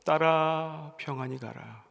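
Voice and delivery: gentle, fading parting blessing; fatherly farewell. Acted. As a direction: say goodbye like a father at his daughter's wedding. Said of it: "친정 아버지가 ... 마지막 인사를 하는 것처럼".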